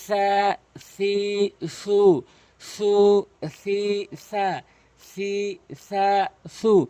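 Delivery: সা, সি, সু chanted in shuffled order; back and forth drill. Shown as a demonstration. Teacher chanting shuffled syllables for practice. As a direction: drill সা সি সু forwards and backwards. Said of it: "উল্টো সিধা".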